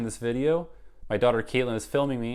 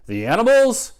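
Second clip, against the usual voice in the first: shocked bossy yell, much higher and louder; 12 semitones higher, 12 dB louder than usual. Acted. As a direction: bark it out in disbelief. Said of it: "yelled Mister Payne".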